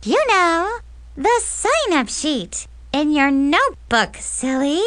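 loud, high, pointed hint. Acted. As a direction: say it loudly so she catches on. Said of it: "said really loudly".

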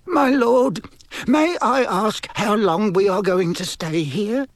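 high-pitched, cautious asking; timid, fearful servant. A narrator's reading. Servant asking his lord about their stay, timid. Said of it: "It sounded timid and fearful".

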